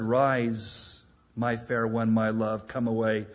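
gentle, unhurried invitation; tender call. Acted. Preacher voicing the bridegroom inviting the bride: tender call. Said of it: "He said".

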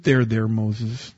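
slow, soothing "There, there"; joking tender God; mock comforting. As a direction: pat him on the head with your voice. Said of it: "The Lord said".

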